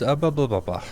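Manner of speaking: flustered blah-blah after a stumble; tongue-tied babble. Real, not acted. Streamer after fumbling grow beds, tongue-tied babble. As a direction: shake out a tangled tongue. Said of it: "my tongue doesn't work so well".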